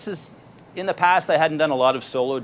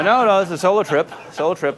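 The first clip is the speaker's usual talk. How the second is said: higher, louder retold no, no; emphatic refusal; 7 semitones higher, 6 dB louder than usual. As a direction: push him off, insisting. Refusing pushy stranger's offer.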